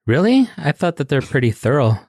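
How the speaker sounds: mock surprise, then dry; sarcastic. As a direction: fake disbelief, playing it straight. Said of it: "I'm being sarcastic".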